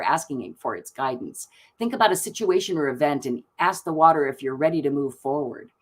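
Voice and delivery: calm, even reading of the oracle card; soothing oracle-deck narration. Acted. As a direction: read it out like a gentle ritual guide. Reads oracle card text aloud.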